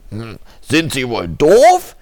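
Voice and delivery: over a landline phone. Acted. Annoyed caller on phone.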